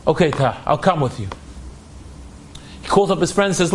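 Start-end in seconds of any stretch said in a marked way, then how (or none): 0.1-1.3 low, subdued reluctant agreement; understated, low-pitched sadness; holding back tears. Acted. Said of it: "David's holding back his tears".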